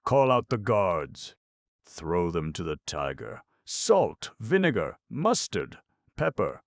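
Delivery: loud, high furious commands; angry shrieks. Acted. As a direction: rage like a tantrum. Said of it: "stamp and shriek with anger".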